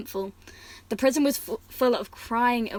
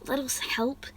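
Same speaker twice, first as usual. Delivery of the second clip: straining voice; 3 semitones higher, 5 dB quieter, slower than usual. Acted. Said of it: "he said, straining his voice".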